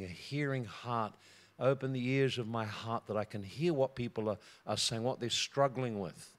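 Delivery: soft, low, measured prayer. Acted. Prays aloud within the sermon.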